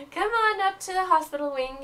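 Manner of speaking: a touch of annoyed witch; annoyed professor. Acted. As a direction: grudgingly send him off. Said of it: "she says".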